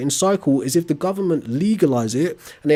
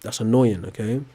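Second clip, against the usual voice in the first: calm turning angry; 4 semitones lower than usual. Real, not acted. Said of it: "I'm trying to be patient".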